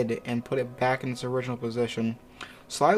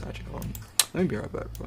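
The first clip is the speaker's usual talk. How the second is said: whispering; 5 dB quieter, much faster than usual. Real, not acted. Sudden aside, unvoiced.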